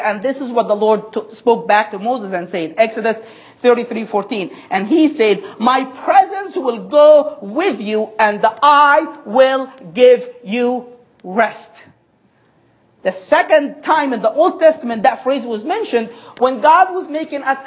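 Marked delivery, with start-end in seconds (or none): 5.6-11.7 slow voice of God. Acted. Voicing God to Moses.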